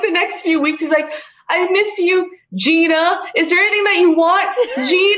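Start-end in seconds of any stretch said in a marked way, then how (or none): 1.5-5.2 raised mock-sweet voice, Gina set apart and punched; pause, then land hard on "Gina" each time; overemphasized GINA. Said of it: "Like, overemphasizing it".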